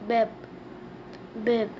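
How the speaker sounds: "bébé" said quickly as "be-be"; teacher modelling "bébé"; French pronunciation. Shown as a demonstration. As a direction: say "bébé" the French way, both syllables short. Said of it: "We say baby in French".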